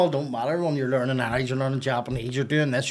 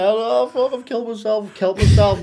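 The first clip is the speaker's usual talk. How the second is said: retold panic; 8 semitones higher, 9 dB louder than usual. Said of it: "I started crying".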